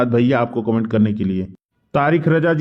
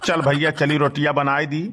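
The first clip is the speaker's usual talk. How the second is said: put-on grumbling old man. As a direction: mutter like a henpecked old villager. S1 plays Badke Bappa grumbling.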